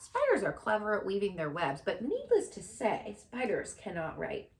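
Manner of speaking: loud, high showman announcer voice. Acted. Fair announcer addresses the grandstand, loud showman proclamation. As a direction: boom it out over the fairground. Loudspeaker continues speech.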